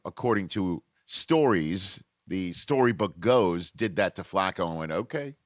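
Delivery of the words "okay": a quick Baltimore "Okay" with a slight rise; lightly done Baltimore accent. Retold or imitated. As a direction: drop a Baltimore twang onto "Okay". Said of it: "that was my Baltimore accent".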